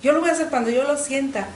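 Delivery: mock-yell the refusal like a stubborn teen; mild retold yell. Rebellious teen shouts she won't pray until she feels it, mock yell. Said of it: "y yo gritaba".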